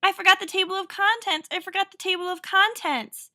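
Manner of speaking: high-pitched, flustered outburst; distressed cry. A narrator's reading. Narrator interrupting his own tale, crying out in a fluster. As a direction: blurt it out in alarm. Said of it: "cried Jack the narrator".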